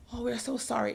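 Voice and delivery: lightly mocked tearful apology; crying sympathizers. They were crying over her story, mock tearful. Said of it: "they were crying".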